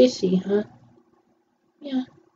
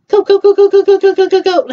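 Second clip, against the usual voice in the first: high, loud eager cheer; excited cheering; 7 semitones higher, 4 dB louder than usual. Real, not acted. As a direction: egg them on, thrilled. Cheering on the screen.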